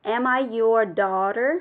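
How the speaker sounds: "daughter?" lifted slightly at the end; rising question tune. Shown as a demonstration. Teacher showing students a slight rise at the end of the question. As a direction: let "Am I your daughter?" rise a little on "daughter". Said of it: "cái phần cuối câu chúng ta lên giọng một chút".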